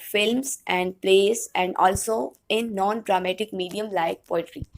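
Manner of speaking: slow, measured lecture read-out; reading notes aloud. Real, not acted. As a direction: read it out slowly to the class. Reads out English notes. (ٹھہر ٹھہر کر نوٹس پڑھتے ہوئے)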